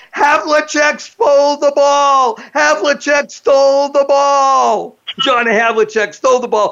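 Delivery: ecstatic, very high, acted play-by-play announcer yell. Retelling a 1965 Celtics game call, the speaker is imitating Johnny Most yelling. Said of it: "all of a sudden he yells out".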